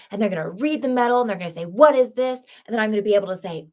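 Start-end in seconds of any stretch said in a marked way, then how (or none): 1.6-2.4 a louder, higher nosy stranger asking; curious onlooker. Pretend. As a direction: play someone spotting the medal and asking. Imagined people reading the medal.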